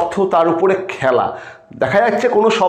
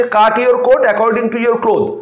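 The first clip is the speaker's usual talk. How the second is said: slow recitation; much slower than usual. Shown as a demonstration. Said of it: "অ্যালিটারেশনের খুব ভালো দুটো উদাহরণ দিই".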